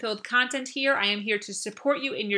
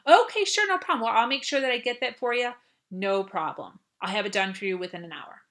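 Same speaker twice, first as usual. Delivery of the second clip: eager to help. Shown as a demonstration. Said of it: "Take back control and say".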